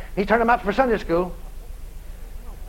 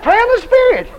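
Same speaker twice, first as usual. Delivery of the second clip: booming command; 11 semitones higher, 5 dB louder than usual. Retold or imitated. Quotes God's command, booming.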